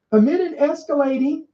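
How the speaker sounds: escalating lifted high and leaned on; stress on escalating. Shown as a demonstration. Host reading the bird flu article, leaning on escalating. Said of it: "and I highlight escalating".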